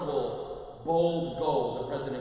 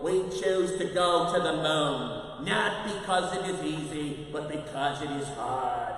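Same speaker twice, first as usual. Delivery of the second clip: stirring speech; 4 dB louder than usual. Retold or imitated. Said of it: "I've watched that clip".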